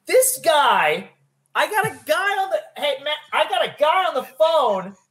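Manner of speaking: replaying his own startled call to a coworker; alarmed dispatcher. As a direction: call across the room to Matt in a flustered panic. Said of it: "that's when I would just".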